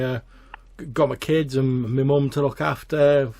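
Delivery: a hint of a nervous stammering lad; stammering peaker. Billy explains his new job to Mick, nervously stammering.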